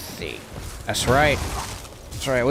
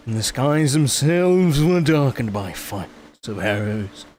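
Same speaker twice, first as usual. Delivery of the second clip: lightly voiced grand storyteller; aristocrat narrator. Streamer reading chat lore to Elder Trev, mildly grand. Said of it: "And I read 'em in a voice".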